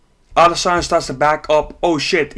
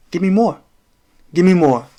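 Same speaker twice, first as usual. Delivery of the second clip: mock taunt, a little louder; imitating a fighter inviting more punches; 3 semitones higher, 4 dB louder than usual. Streamer imitating Adesanya's taunt, mock taunting. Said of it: "Adesanya does this".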